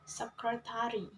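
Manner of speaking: "secretary" stressed on its first syllable, SEC. Shown as a demonstration. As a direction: put the weight on the SEC of "secretary". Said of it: "stress on the first syllable".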